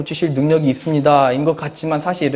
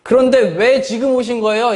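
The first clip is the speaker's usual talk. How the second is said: Mary's reproach. Retold or imitated. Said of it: "이렇게 얘기하는 거죠".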